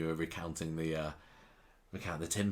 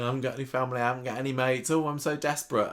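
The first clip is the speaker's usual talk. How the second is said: higher, hammed-up self-pity; Lauren playing the victim, mock tearful; mock blubbering; 5 semitones higher, faster than usual. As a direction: whine it like a fake sob story. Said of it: "she starts blubbering around".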